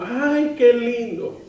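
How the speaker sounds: high cooing "how cute"; gushing over a newborn, high and sweet; admiring coo. Retold or imitated.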